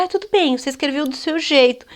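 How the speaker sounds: mock lenient teacher, breezy; permissive teacher. Teacher to child, mocked as too lenient. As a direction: play the easygoing teacher accepting anything. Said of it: "a professora fala".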